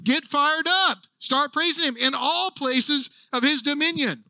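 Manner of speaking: fired-up call. Retold or imitated. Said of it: "He's telling them".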